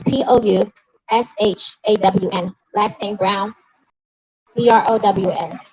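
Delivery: spelling out a name letter by letter, slowly; measured, letter-by-letter spelling. Real, not acted. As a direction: spell it slowly so listeners can follow. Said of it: "I'll say her name slow".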